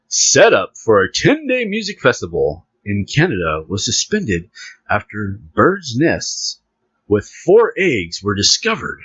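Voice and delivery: lightly formal news reading. Acted. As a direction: read it out like an article. Reads a news article.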